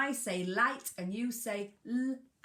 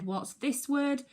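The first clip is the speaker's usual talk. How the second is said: teacher question; 6 semitones higher, 5 dB louder than usual. Shown as a demonstration. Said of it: "If I said".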